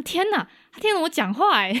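high, loud amazed gasp of a thought; surprised teacher's inner voice; astonished. Retold or imitated. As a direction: sound stunned that the child listened. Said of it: "我当下有点吓到".

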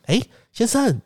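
high, slow rehearsed pitch; mock salesman's sweet opening; salesman greeting. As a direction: mimic the scripted line. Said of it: "就跟我讲说".

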